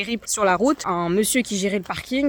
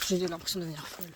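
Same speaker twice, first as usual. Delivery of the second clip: exhausted muttering; 4 semitones lower, 12 dB quieter, faster than usual. Real, not acted. Exhausted on the endless climb.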